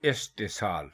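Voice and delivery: इस्तिसाल said cleanly as is-ti-saal, no h after the t; teacher modelling इस्तिसाल with no h sound; correct Urdu pronunciation. Shown as a demonstration. Urdu teacher models the correct word for viewers, clearly. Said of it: "ये दुरुस्त लफ्ज़ इस्तिसाल है".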